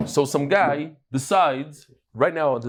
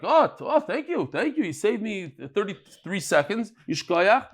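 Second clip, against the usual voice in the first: a happy owner thanking the helper, lightly acted; grateful owner; 3 semitones higher than usual. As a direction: gush thanks like a relieved owner. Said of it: "if he doesn't care, he's like".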